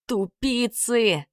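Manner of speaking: гневный вопль; yelled. Acted. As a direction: bellow it at the clumsy trolls. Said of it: "заорал Санька".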